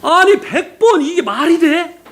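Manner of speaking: high, slow stunned disbelief. Retold or imitated. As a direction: gasp at the idea. Shocked inner thought retold. (기가 막힌 듯 놀라며)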